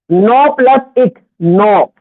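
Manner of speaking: slow, even teaching read of नौ plus एक; slow spelling out. Shown as a demonstration. Teacher breaking the word down for students, slowly. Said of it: "तो ये इसमें एक और लिखेगा".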